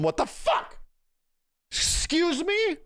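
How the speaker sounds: slow incredulous excuse me, jumping up high at the end; playfully scandalized, drawn out; acting out asking the person adjacent, high and incredulous; mock indignant question. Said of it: "ask them".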